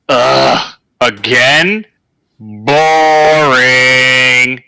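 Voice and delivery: whiny, put-upon complaint; bored voice in the skull. Acted. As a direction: sigh it out like a bored presence. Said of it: "a voice resonate in your skull, just going".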